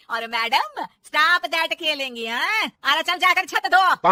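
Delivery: angry order. Acted. Mother-in-law orders daughter-in-law to wash the roof, slow scornful. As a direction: order her off slowly.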